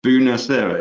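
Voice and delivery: a light Italian accent on Buonasera, rolled and sung out; hint of an Italian accent. Shown as a demonstration. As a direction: say Buonasera with a little Italian flair. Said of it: "I love the way you put a little bit of accent on that".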